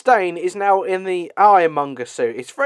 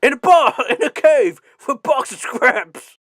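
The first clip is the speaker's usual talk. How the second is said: mock villain rant; 6 semitones higher than usual. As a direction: act out the villain's outburst, stretching the last phrase. Quotes the film villain's famous line.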